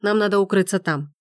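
ordinary delivery, nothing marked

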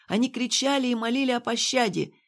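ordinary delivery, nothing marked

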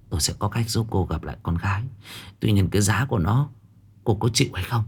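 a hint of a hushed old seer striking a bargain; old fortune-teller.

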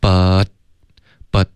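But said with the t held, a clean stop before the next word; but, tongue up and air sealed so the t is cut off short; crisp stopped but. Shown as a demonstration. Teacher showing learners how to stop the t in but. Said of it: "记得要导致一个干脆的停顿".

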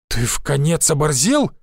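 plain reading voice

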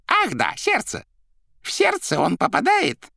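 high, theatrical character voice; Koroviev exclaiming. A narrator's reading. Koroviev recalling the topic, high exclamation. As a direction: exclaim as if just remembering.

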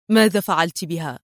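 low, stern question. A narrator's reading. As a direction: demand it coldly and firmly. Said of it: "في صرامة".

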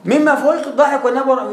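ordinary talk, nothing marked

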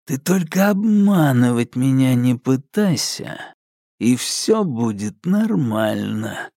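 slow, deliberate calm of a psycho; slow menacing approval. A narrator's reading. The psycho approves Alka's answer, slow and menacing. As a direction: praise her slowly, with a threat underneath.

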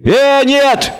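very high, sudden bleat; bleating devil. A narrator's reading. Devil rushing in to shield the condemned, bleating. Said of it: "Вдруг заблеял дьявол".

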